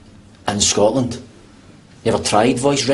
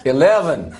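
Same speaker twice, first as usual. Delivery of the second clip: badly faked American accent; attempted American accent. Scot trying American for the voice-activated lift, dodgy American accent. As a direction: have a poor go at American, sounding rather Irish. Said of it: "You need to try an American accent".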